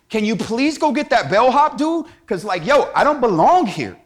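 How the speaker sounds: lightly acted bold, indignant lady; mild mock indignation. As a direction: protest boldly as a woman sure she doesn't belong. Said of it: "this lady gets so bold, she's like".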